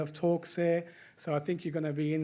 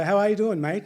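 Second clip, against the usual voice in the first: Aussie greeting; 3 semitones higher, 8 dB louder than usual. Retold or imitated. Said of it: "That's like saying".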